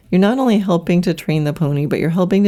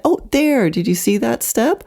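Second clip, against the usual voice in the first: put-on excited teacher to child; 6 semitones higher than usual. Acted teacher catches the pony's step.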